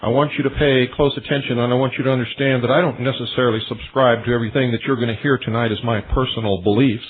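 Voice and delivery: ordinary delivery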